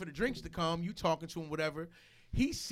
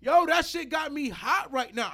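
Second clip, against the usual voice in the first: real anger; 4 semitones higher, 5 dB louder than usual. Real, not acted. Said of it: "I'm really fuming about that".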